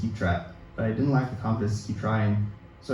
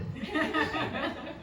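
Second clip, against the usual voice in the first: breathy laugh; 9 dB quieter than usual. Real, not acted. Laughing after the quote.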